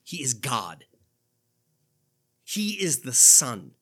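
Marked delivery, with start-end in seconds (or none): 2.4-3.7 slow, loud declaration; proclaiming. Real, not acted. Preacher proclaims to the congregation, slow and loud. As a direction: plant each word like a banner.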